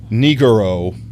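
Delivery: slow, Anglicized Japanese word in an American accent; English-speaker's accent. Shown as a demonstration. Streamer carefully demonstrating a Japanese word, American accent. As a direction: say it slowly with plain American English sounds. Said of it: "as English speaking as I can".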